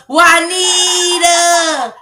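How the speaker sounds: greeting a sister on the phone with a long high call; drawn-out call. Real, not acted. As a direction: stretch the name out high and slow. Calling sister's name, drawn out.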